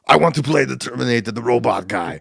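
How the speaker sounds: lightly voiced Austrian accent; hint of an imitation Austrian accent; Arnold's Austrian accent. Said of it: "Arnold Schwarzenegger saw the script".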